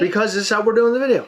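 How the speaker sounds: fast, giggling through the words; can't hold back the laughter; laughing. Real, not acted.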